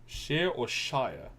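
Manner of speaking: slow "Shire or Shire?", two different sounds of "Shire"; shire pronunciations contrasted. Shown as a demonstration. Streamer showing viewers how locals say Shire, slow demo. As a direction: slowly set the two ways of saying "Shire" side by side. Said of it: "how we say Shire".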